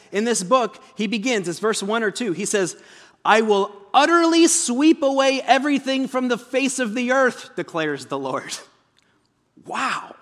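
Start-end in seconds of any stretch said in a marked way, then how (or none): 3.2-7.5 booming voice of God. Acted. Preacher voices God's judgment.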